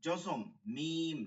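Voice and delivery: slow recitation. Shown as a demonstration. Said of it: "মিমে".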